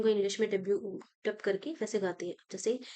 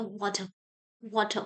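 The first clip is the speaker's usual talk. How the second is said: American accent. Shown as a demonstration. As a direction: say वाटर like an American, wah-der. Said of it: "वो इस तरीके से बोलते हैं". (वाटर अमेरिकन लहजे में)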